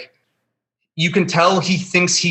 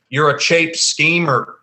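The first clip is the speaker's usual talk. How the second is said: oddly Irish; slower than usual. Retold or imitated. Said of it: "He says it like that".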